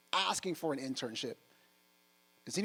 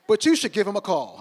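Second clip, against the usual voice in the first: laughing read; 6 semitones higher, 14 dB louder than usual. Retold or imitated. Reading the assistant's sticky note.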